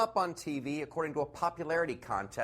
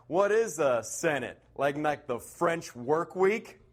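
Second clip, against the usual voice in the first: Jeb Bush impression; slower than usual. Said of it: "he's like".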